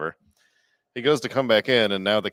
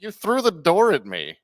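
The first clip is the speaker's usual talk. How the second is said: high, loud imitated accusation; hammed-up outraged protest; mock indignant complaint; 10 semitones higher, 6 dB louder than usual. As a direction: imitate an aggrieved kid protesting. Kid's indignant complaint, retold.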